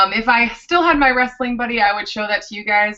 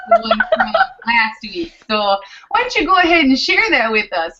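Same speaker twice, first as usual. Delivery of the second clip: laughing; 3 semitones higher than usual. Real, not acted. Laughing while handing over.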